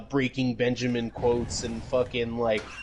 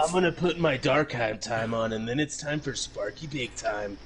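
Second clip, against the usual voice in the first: mock sinister killer. Mocking the killer's dark hat.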